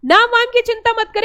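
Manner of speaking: said in one tone. Shown as a demonstration. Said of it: "एक सुर में बोलना".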